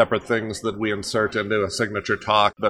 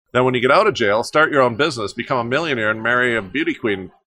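louder, lifting energy as the story turns up; story turning up; 2 semitones higher, 3 dB louder than usual. Shown as a demonstration. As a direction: pump it up like things finally go right. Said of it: "the emotional line of the story has turned up".

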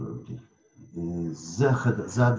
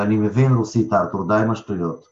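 loud, fed-up scolding; exasperated retort; 6 dB louder than usual. Retold or imitated. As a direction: snap back, annoyed. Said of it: "הוא אומר".

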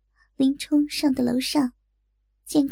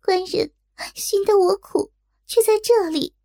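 higher, agitated maid's cry; calling out; 6 semitones higher than usual. A narrator's reading. Maid calling to the master she has searched for, high-pitched cry. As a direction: call out in a raised pitch, urgently. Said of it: "只见女使锦儿叫道".

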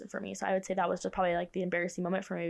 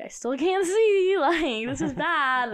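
laughing complaint; 8 semitones higher, 7 dB louder, much slower than usual. Retold or imitated. Retold complaint to Mom.

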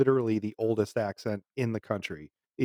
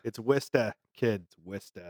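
Worcester as "Wistah", R dropped in Boston style; Boston accent. Shown as a demonstration. Giving co-host the actual local way, in a Boston accent. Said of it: "the Boston accent come from".

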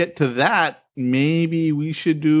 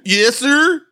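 private answering; 7 semitones higher, 5 dB louder than usual. Acted. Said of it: "And you be Private Pyle".

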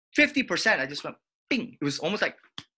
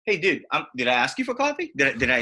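caustic reply; faster than usual. Shown as a demonstration. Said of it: "tone one in sympathetic tone".

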